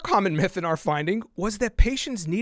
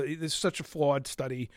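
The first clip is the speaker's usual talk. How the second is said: ordinary delivery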